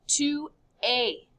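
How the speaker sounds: "Tu es" said tu eh, silent s; "es" as a plain A sound, s silent; pronounced without s. Shown as a demonstration. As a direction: model "Tu es" with no final s. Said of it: "It's just pronounced A. Don't say the S".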